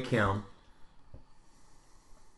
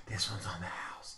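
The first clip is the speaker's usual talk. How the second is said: low sultry voice; 6 semitones lower, 16 dB quieter than usual. Retold or imitated. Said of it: "And she's like".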